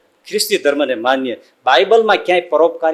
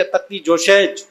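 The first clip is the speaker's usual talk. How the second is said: mocking the educated; 3 semitones higher, slower than usual. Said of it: "ભણેલા તો એમ કહે છે".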